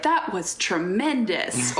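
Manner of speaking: Letterman impression. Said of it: "he'd always go out and be like".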